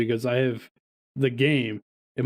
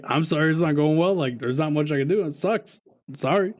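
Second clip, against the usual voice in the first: retold earnest sorry, higher-pitched; sincere apology; 4 semitones higher than usual. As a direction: replay a well-meant apology, lifting the voice. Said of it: "And it was sincere".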